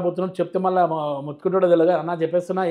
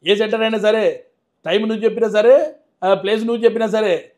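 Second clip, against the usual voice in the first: louder, challenging Balayya hero dialogue; Balayya impression; 3 semitones higher, 4 dB louder than usual. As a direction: throw the dare like Balayya. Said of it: "voice ditto Balayya Babu లాగా ఉంది".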